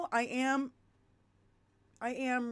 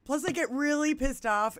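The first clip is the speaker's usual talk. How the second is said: ordinary talk, nothing marked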